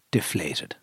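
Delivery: deflated. Retold or imitated. Recounting dejection after losing horse.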